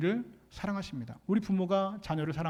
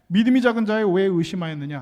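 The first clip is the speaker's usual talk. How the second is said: ringing rebuke; 8 dB louder than usual. Acted. 성경 속 예수님 말씀.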